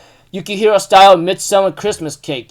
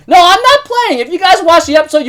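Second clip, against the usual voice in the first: laughing; 11 semitones higher, 5 dB louder than usual. Real, not acted. Laughing disbelief to viewers.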